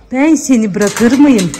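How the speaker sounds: slow, tender reassurance to a pet. Real, not acted. To the crying dog, a slow tender reassurance. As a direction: stretch it out soothingly.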